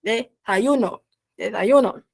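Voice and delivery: Desayuno spoken slowly as de-sa-YU-no; teacher modelling Desayuno; Spanish word said carefully. Shown as a demonstration. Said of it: "el desayuno é café da manhã".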